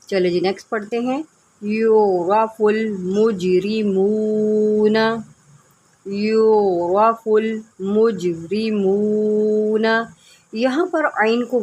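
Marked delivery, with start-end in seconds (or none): 1.6-9.8 slow melodic Quran chanting; tajweed recitation. Shown as a demonstration. Teacher models the verse for online students, slow recitation. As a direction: stretch the vowels in measured recitation.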